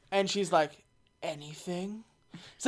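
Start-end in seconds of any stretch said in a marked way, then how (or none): 1.2-2.0 tag withheld. Acted. Acting her reply to the offer.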